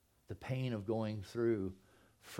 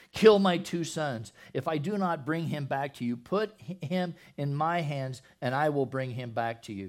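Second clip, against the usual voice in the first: earnest pledge; 5 dB louder than usual. Acted. Reuben pledging to his father, a hint of pleading. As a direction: swear it on your sons. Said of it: "Reuben spoke to his father".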